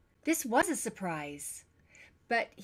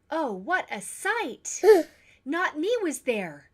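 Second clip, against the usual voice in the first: slow, loud gasp of surprise, higher; startled; 7 semitones higher, 10 dB louder than usual. Acted. Tess tells parents of her fright, gasping and loud. Tess recalls seeing Not Me.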